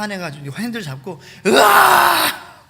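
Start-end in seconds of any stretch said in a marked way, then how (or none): 1.5-2.7 loud anguished scream; retold yell. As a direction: let out a loud frustrated cry. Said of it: "소리 질렀대요".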